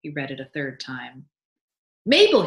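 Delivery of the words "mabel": high, loud call up the stairs. A narrator's reading. Husband calls his wife upstairs, excited shout. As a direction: shout her name, high and urgent. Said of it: "he cried".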